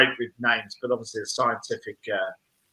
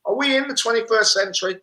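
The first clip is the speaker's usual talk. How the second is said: high disbelieving question; incredulous; 10 semitones higher, 4 dB louder than usual. Retold or imitated. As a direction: ask it in shocked disbelief. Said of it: "And I was like".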